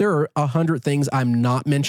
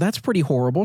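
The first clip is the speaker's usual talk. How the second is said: usual speaking voice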